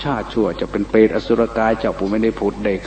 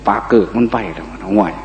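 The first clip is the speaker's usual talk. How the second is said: Isan dialect quote. Retold or imitated. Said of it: "ว่าซั่น".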